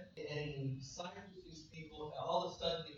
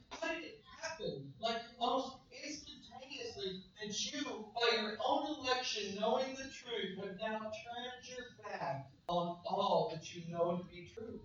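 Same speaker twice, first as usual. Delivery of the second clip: angry shock; 2 semitones higher, 4 dB louder than usual. Acted. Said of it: "Paul is angry".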